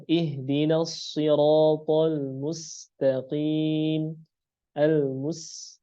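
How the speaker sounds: slow drawn-out recitation with a light s in MUSTAQIM; thin sin. Shown as a demonstration. Teacher recites a verse, slow with thin sin in "mustaqim". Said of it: "sin tipis".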